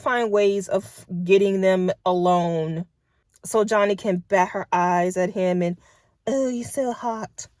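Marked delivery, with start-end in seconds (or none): 6.3-7.5 mock swooning. Mocking the love interest's swooning.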